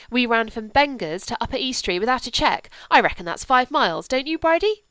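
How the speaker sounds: put-on loud, eager child; excited chatter. A narrator's reading. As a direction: gush about the hunt. Cordelia excited about the hunt.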